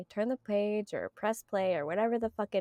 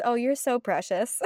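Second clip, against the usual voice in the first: cooing, rising to the end; mock endearment; 3 semitones higher than usual. Shown as a demonstration. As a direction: coo it like a fond compliment. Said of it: "Sometimes it just means".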